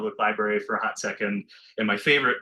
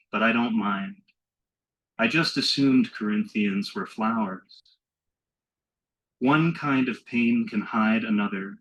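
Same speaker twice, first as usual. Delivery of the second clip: measured poem recital with drawn-out lines; poetry reading; 3 dB louder than usual. Acted. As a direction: read your poem slowly to a hushed room, pausing between lines. Reads own poem aloud.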